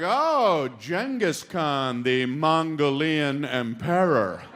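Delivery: slow, drawn-out show of knowledge; trying to sound smart. Retold or imitated. Newcomer wants to impress the group, slow smart-sounding voice. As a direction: stretch it out like a would-be scholar. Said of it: "So I wanted to sound smart".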